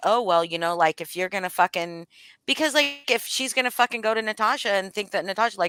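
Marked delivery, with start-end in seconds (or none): 0.0-2.1 mock sarcastic tone. Retelling own past remark, imitating own sarcastic remark. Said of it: "it was probably in a sarcastic way".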